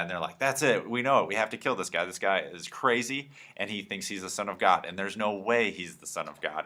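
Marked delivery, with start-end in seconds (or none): 0.4-3.3 mock mad priest. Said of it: "the high priest gets super mad".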